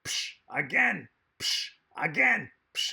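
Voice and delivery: high, loud, slow mock German demand; hammed-up dominatrix ordering again; German accent. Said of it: "she's like".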